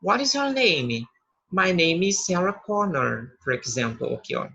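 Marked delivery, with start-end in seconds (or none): 0.0-1.1 slow, clear classroom English, pitched higher; model English question. Shown as a demonstration. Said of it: "E aí você vai dizer". 1.5-3.3 slow, clear English reply; model English answer. Shown as a demonstration. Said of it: "E aí você vai dizer".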